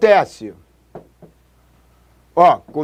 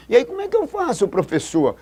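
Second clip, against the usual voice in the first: high, pleading student voice; student question; 5 semitones higher than usual. Retold or imitated. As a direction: ask like a confused student. Student asking the teacher. (aluno perguntando com voz aguda)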